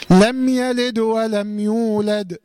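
slow chant, "يلد" closed on a bouncing vowelless dal; dal with qalqala. Shown as a demonstration. Teacher modelling the rule, chanting "يلد" with still, bounced dal. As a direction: stop the dal of "يلد" and "يولد" with a small echoing release. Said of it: "من سكون الدال مع القلقلة".

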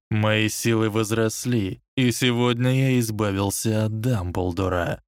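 lightly voiced villain; cold Dark Lord. Voldemort addresses servants.

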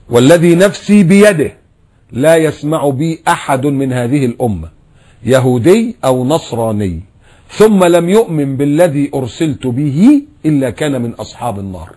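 slow, solemn recitation of the hadith; measured sermon chant. Acted. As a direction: draw out each phrase like scripture.

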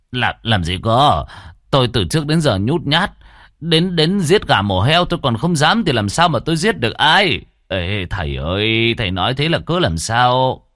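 stammering, high-pitched protest of innocence; panicked denial. Acted. Lão Vinh tells the exorcist he never killed anyone, panicked and protesting. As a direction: plead frantically, tripping over the first words. Accused man frantically denies killing anyone.

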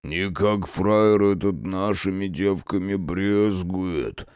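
slow, scraping voice of an offended man; grating creak. Acted. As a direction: grind the words out, hurt. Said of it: "проскрежетал от двери обиженный Прокопушка".

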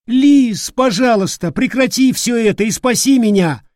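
high, loud frantic begging; desperate plea. Acted. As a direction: beg to be saved in panic. Frightened youth begging for rescue. (юноша в панике умоляет подругу о спасении)

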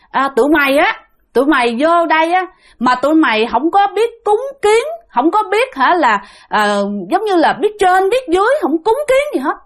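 a possessing spirit berating the family; angry spirit voice. Retold or imitated. Possessed mother scolds the father. (giọng hồn nhập mắng ba)

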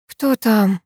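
drowsy, just woken up; sleepy voice. A narrator's reading. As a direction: ask it half asleep. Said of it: "сонным голосом спрашивает Лена".

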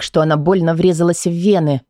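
usual speaking voice

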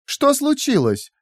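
very high, slow, sugary mockery; syrupy sarcastic question; honeyed sarcasm. A narrator's reading. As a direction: feign sweet concern, drawing it out. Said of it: "Голос Лики был наполнен мёдом и сарказмом".

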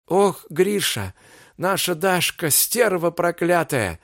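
near tears and indignant, dragging the words; indignant tearful. Acted. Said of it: "негодующие слёзы".

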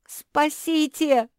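slow, very high, loud scream; desperate cry for help. A narrator's reading. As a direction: scream for rescue from the icy river. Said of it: "закричала Куки".

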